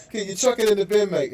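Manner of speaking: host doing a Brit asking him to bin it; imitating British. Mock British accent. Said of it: "then he's like".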